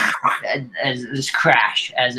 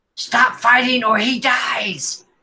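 shrill, very high yell; 11 semitones higher than usual. Narrating a fantasy encounter, voicing an unseen figure, yelling from the back. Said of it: "you hear a voice from the back yell".

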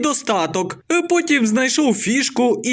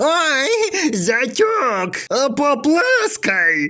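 strangled, squeezed-throat voice, "ой" drawn out; 2 semitones higher than usual. Joke teller voicing a mother-in-law who has choked, in a put-on strangled voice. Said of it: "Теща здавленим голосом".

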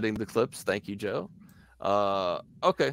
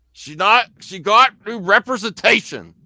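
put-on angry bearded-man voice; 10 semitones higher, 7 dB louder than usual. Prompting the speaker to do a Gary impression, show how: mock-angry Gary impression. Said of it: "say it like you have a big long beard and are angry".

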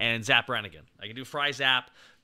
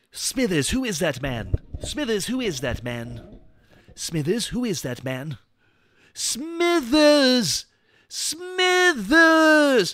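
very high, loud, swooping sing-song, one word stretched; 10 semitones higher, 6 dB louder than usual. Trying out an impression: Mister Burns voice. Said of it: "Let me try my Mister Burns".

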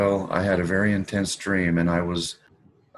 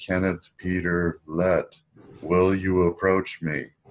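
put-on rumbling voice. Retelling a dream where a figure called out from the altar, imitating God's rumbling voice. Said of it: "he called out to me in that rumbling voice".

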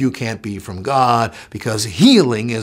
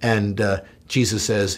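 normal talking voice

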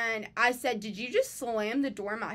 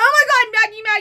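piercing, very high, very loud shriek; 11 semitones higher, 14 dB louder than usual. Retelling how a friend reacted to the fight: imitating a friend screaming. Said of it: "Sorry if that was really loud".

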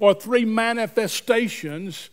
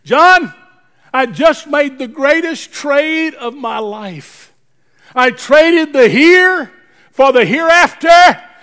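mock thrilled, bursting, high and loud delivery; 6 semitones higher, 8 dB louder than usual. Retelling a two AM phone call to a confidant: imitating an excited voice. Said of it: "with an exciting voice, or an excited voice".

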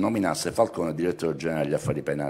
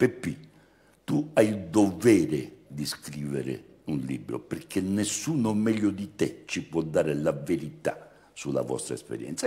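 put-on Sardinian accent; 4 dB quieter than usual. Quoting what someone once told the speaker, imitating their Sardinian accent. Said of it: "imito un po' il suo noto accento sardo".

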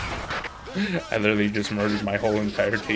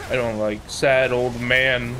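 ordinary talk

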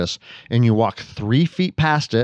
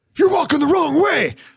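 put-on scream, higher pitch. Retelling how a stranger screamed at a student in a grocery store: imitating someone screaming. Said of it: "started screaming at him".

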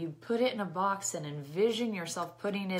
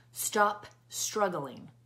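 put-on militant, commanding tone. Retelling what the instructor told the class, in a militant voice. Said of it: "like in a militant voice".

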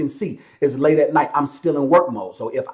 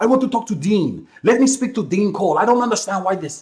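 put-on French accent, pitched high; 6 semitones higher than usual. Retelling a caller who demanded to speak to Dean: imitating a French accent. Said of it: "this one dude with the French accent".

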